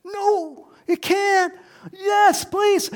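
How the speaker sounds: Martha daring to hope; nervous disbelief. Retold or imitated. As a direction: Martha whispering doubts, then begging. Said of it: "And Martha's going".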